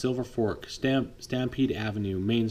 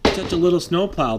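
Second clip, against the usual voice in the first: mocking big truck voice, higher and louder; 6 semitones higher, 6 dB louder than usual. Big truck scoffing at the new snowplow. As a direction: sneer at the little plow. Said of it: "the big truck said".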